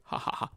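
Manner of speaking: voiceless "ha ha ha"; mock laugh. He made himself look like an idiot, mocking laugh. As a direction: laugh at someone's foolishness. Mocks the man looking foolish.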